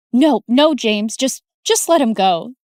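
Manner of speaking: a woman stopping a fight, loud and urgent; urgent pleading shout. Acted. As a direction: hold him back with your voice.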